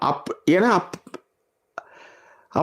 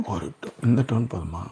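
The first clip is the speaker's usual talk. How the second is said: lower, softer voice; toned down; 7 semitones lower, 7 dB quieter than usual. Shown as a demonstration. Guest asks host if this tone is enough, toned down. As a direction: drop the tone and volume right down. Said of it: "ஒரு tone மட்டும் கம்மி பண்ணிக்கோங்க".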